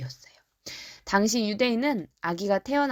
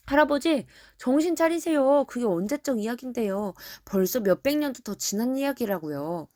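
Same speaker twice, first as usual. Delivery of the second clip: mocking; 4 semitones higher than usual. Doubters chiding old Simeon for waiting, mocking. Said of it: "이렇게 조롱하기도 했어요".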